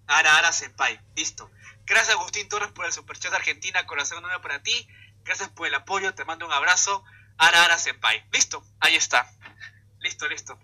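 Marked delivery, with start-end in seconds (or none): 0.1-1.0 anime-style teasing line; hammed-up anime senpai tease; playful anime tease. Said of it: "me ha dicho que lo diga". 7.4-8.3 louder anime senpai tease; playful anime tease. Pretend. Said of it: "me ha dicho que lo diga".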